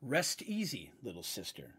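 a hint of a low, deep stranger; deep gentle voice. Minotaur stranger comforting wounded Maeve, lightly voiced deep tone. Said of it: "said an incredibly deep voice".

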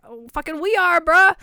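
rising, cocky fan yell; excited retold reply. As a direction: call it out like an overkeen fan. Retold eager reply to the crew.

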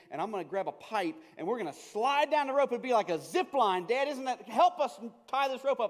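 put-on high, loud, eager rush of a kid's big idea; excited kid pitch. Kid selling dad his zip line, high and loud. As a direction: son begging dad to help with the rope, loud and eager.

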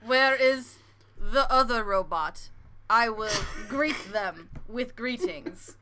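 even machine gun syllables; robot voice. Pretend. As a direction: stiff robot greeting, slowed. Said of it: "do the bit".

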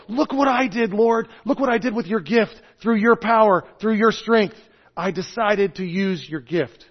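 mild imitation of a proud child; eager look-what-I-did. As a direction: show your work proudly, like a child. Believer showing God his work.

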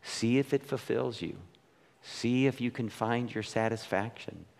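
soft, tender and sad; God's voice. Retold or imitated. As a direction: gently let them go. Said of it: "He's like".

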